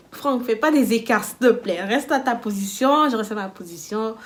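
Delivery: loud, slowed plea to stay put; firm warning. Retold or imitated. Telling Franck to stay on his side of the bed, firm warning.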